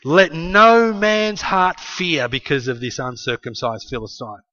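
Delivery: slow assured proclamation; lightly voiced brave David, slow; confident David. David reassuring the king, slow and assured. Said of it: "he said".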